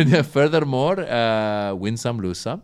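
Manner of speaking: mock press statement in a Pakistani accent; comic Pakistani accent, hesitant delivery. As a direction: put on a halting Pakistani spokesman's accent. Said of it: "This isn't a Pakistani accent".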